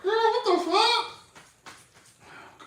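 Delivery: very slow, high, stretched-out disbelief; drawn-out mock shock. Reliving the shedding coat for viewers, slow stretched mock horror. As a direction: drag every word out in mock horror.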